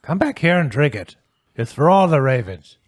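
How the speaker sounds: put-on high, loud calling-back old voice; calling old man. Herb calling Crom back to drink, high loud old voice. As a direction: call him back firmly.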